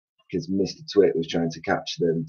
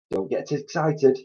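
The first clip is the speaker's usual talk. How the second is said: calming; 7 semitones higher, 4 dB quieter than usual. A narrator's reading. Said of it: "said Mugglewump".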